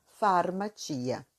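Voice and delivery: "farmacia" drawn out slowly, far-ma-TCHI-a; Italian pronunciation, slowly. Shown as a demonstration. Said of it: "A pronúncia de farmácia é". ("farmacia" bem devagar, pronúncia italiana)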